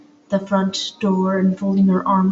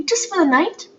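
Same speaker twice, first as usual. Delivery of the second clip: high, small hopeful ask; mildly hopeful plea; 10 semitones higher than usual. A narrator's reading. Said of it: "Poppy said hopefully".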